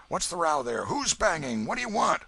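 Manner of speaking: loud, alarmed calls from an upstairs window; calling out. Acted. Old man shouts from the window at whoever is banging. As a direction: shout down to a stranger banging below.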